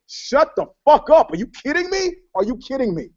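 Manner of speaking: can't believe what he's hearing; incredulous. Real, not acted. Incredulous rant at Cat.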